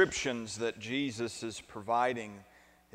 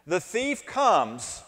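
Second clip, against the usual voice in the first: slow recitation; 6 semitones higher, 5 dB louder, slower than usual. Shown as a demonstration. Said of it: "would you say that with me?".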